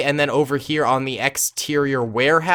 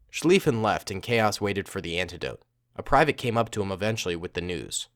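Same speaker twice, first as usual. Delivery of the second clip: low, measured story reading; story narration; 7 semitones lower, 7 dB quieter than usual. A narrator's reading. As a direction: narrate the tale in a low, even voice. Reads the story aloud.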